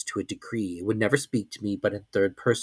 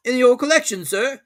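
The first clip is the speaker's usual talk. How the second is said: higher, even, unbothered servant voice; calm servant; 14 semitones higher, 6 dB louder than usual. A narrator's reading. Servant accepting the sudden departure, calm and higher. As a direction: agree without any fuss, voiced high. Servant asks about collection.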